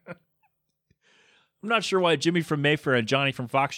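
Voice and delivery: chuckling through the words; amused, laughing at his own joke; laughing while talking. Real, not acted. Host laughing at his own made-up neighborhood names, chuckling.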